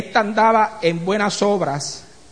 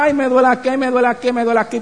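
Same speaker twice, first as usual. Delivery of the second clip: mock whining complaint; 3 semitones higher, faster than usual. Preacher mocking complaining believers, mild mock whine. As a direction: imitate a complaining church member, half-hearted. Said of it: "llorones ... más quejosos que nada".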